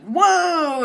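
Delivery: imitating startled officers; mock surprise. Woman imitating officers startled at the door. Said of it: "They're like".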